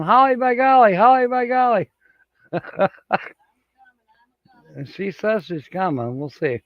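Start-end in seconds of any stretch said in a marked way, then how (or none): 0.0-1.9 high-pitched mock hollering, catchphrase repeated; imitating Uncle Lisa. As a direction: playfully imitate someone in a raised pitch. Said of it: "Uncle Lisa's going".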